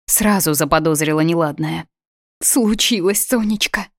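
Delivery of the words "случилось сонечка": upset. Acted. Mother with bad news.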